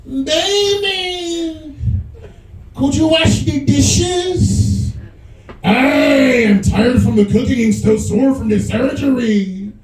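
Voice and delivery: high, slow guilt-tripping plea; wheedling wife. Retold or imitated. Wife asks husband to wash dishes, high and whiny. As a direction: stretch each word like a spoiled wife. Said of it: "she's like".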